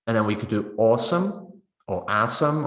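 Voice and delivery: awesome first with aw, then with a as in cat; two vowels for awesome. Shown as a demonstration. Teacher offering students two vowels for awesome. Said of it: "depending kind of what kind of vowel".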